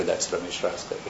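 hushed, low prompt in the ear; discreetly feed someone a name under your breath; soft, low aside imitating a whispering assistant; mock whisper. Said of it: "somebody whispers in your ear".

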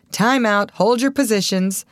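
exclaimed stop order; sudden exclamation. A narrator's reading. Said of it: "suddenly exclaimed the operator".

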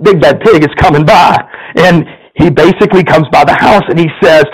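lively storyteller reading a fable to the congregation; story narration. A narrator's reading. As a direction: tell it like a bedtime tale, playful. Pastor reads a story aloud.

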